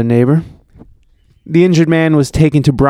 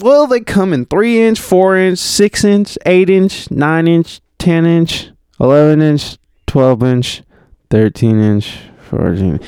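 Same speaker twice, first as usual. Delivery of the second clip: southern list, starting high and stepping down to usual pitch; mock southern witness; 4 semitones higher than usual. Imagining Kofi endlessly listing bomb sizes, mock southern accent. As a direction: keep listing in a hammed-up southern voice. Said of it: "if he would've been like".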